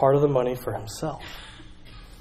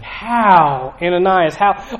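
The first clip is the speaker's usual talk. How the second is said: mild pleading; 3 semitones higher, 4 dB louder, much slower than usual. Retold or imitated. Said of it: "Peter looks at him and is like".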